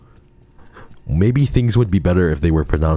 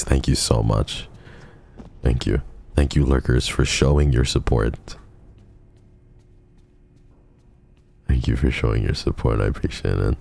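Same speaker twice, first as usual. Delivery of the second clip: soft; 2 semitones lower than usual. Real, not acted. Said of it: "Suddenly I'm soft for once".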